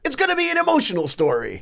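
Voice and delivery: can't hold the impression for laughing; quoting the guru while cracking up; laughing through the quote. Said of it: "he goes".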